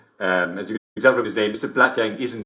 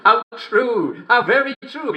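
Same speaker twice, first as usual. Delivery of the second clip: much higher, delighted exclamation; gushing delight; 11 semitones higher, 4 dB louder than usual. Acted. Host praising a listener's joke, gushing delight. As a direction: gush over how true it is.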